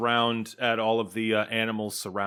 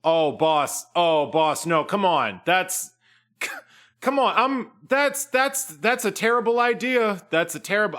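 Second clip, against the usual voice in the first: higher, louder, tumbling words; flustered protest; 7 semitones higher, 4 dB louder than usual. Acted. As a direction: scramble to talk the boss out of it. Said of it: "looks at Trapjaw and says".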